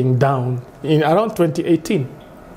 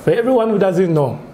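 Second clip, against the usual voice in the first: light Nigerian pidgin accent; a hint of a Nigerian comedian. Shown as a demonstration. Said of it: "the Nigerian accent".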